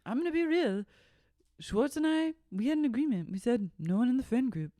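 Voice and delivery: high, halting imitation; put-on confessional voice. Friend mimicking her confession about the agreement, high put-on voice. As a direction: pitch it up and measure out each phrase.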